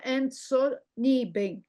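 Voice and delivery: and so ni bing said slowly, stress on ni; slow modelled phrase. Shown as a demonstration. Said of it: "teacher models the phrase".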